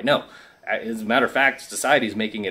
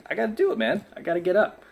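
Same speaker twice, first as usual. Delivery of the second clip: self-pep talk; 8 semitones higher, faster than usual. Retold or imitated. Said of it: "So I'm like".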